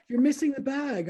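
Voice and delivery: high, mock-polite gentle voice; calm and polite. Imitating the driver's calm, polite remark. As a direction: play it sweetly calm. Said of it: "Very calm".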